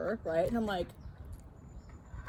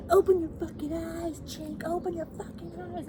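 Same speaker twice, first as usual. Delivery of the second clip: mock racist taunt; 9 semitones higher than usual. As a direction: taunt it like the driver. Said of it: "She was".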